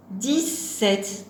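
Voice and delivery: "Dix-sept" as dix, then sept; split in two. Shown as a demonstration. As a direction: pause between the halves of "Dix-sept". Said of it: "on entend dix et sept".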